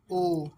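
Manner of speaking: ओ held long as "ohh"; vowel sound demo. Shown as a demonstration. Teacher shows it keeps the vowel sound, drawn-out ओ. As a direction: give ओ firmly, set apart. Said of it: "ये ओ की sound ही देगा".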